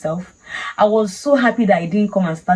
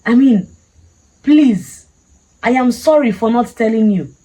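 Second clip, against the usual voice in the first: higher, louder mock-tearful plea; tearful pleading; 4 semitones higher, 4 dB louder than usual. Churchgoer begs the security man to let her leave, retold tearful pleading. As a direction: re-enact begging on the verge of crying. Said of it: "I was crying".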